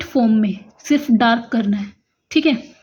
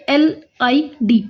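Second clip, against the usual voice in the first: slow spelled out; slower than usual. Shown as a demonstration. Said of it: "एल और डी के बीच में ई की vowel".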